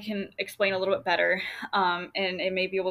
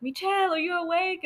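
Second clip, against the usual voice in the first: high, sing-song mom call through the house; imitating mom calling out; 10 semitones higher than usual. Daughter imitates her mom's morning wake-up call. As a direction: mimic your mom checking if you're up. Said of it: "and then she'd be like".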